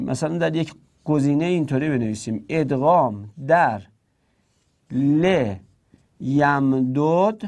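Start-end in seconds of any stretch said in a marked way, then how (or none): 4.9-7.4 ل یمدد slowly, as le, pause, yam-dod; unmerged form. Shown as a demonstration. Teacher dictates an exam option, slow unmerged form. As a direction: draw out ل یمدد with both dals apart.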